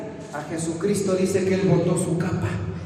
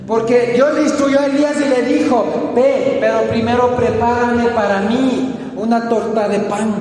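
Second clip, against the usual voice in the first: raised preacher's voice; emphatic sermon storytelling; forceful preaching; 6 semitones higher, 6 dB louder than usual. Acted. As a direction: tell it emphatically from the pulpit.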